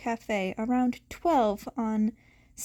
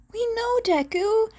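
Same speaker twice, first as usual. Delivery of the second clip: soft smile; 10 semitones higher, 4 dB louder than usual. A narrator's reading. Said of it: "she replied with a soft smile".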